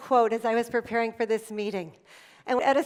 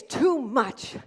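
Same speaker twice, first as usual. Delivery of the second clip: put-on whiny child. Son complains about activities.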